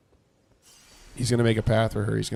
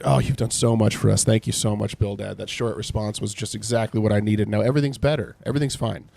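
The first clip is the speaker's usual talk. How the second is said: mock thanks. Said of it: "he's being sarcastic".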